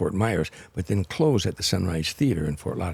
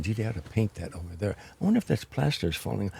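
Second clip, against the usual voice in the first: softer, half-muttered self-distraction; distracted inner voice; 6 dB quieter than usual. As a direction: quietly force your mind elsewhere. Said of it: "I'm saying".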